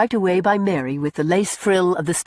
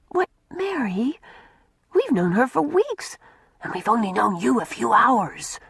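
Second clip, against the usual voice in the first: stammering; 4 semitones higher than usual. A narrator's reading. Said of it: "stammered Una".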